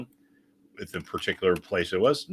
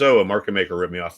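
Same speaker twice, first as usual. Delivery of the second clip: mocking whine; 6 dB louder, faster than usual. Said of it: "someone says".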